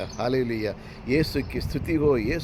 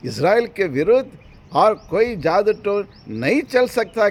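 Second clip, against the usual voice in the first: raised, firm proclamation; emphatic preaching; 9 semitones higher, 7 dB louder than usual. Acted. Preacher declaring no sorcery can touch Israel, emphatic preaching. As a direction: press the verse on the congregation.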